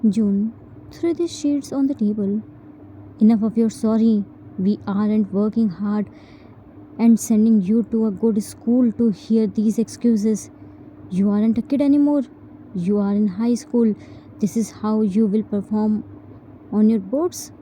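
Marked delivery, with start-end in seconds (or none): 3.2-15.0 angry parent. Acted. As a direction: rattle off the scolding, fed up. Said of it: "Angrily left".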